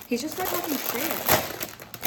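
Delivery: loud, slow, outraged complaint; exasperated outburst. Real, not acted. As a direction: stretch it out in outrage.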